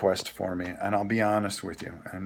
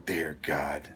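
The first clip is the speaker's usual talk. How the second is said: dismayed groan; 7 semitones lower, 8 dB quieter than usual. Retold or imitated. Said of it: "And I go".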